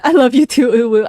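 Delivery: sweet mock-flirty uwu voice. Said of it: "pulled out the uwu voice".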